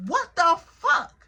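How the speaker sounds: high, drawn-out bewilderment; retold disbelief. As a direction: stretch it out in mock astonishment. Retold disbelief at his behaviour.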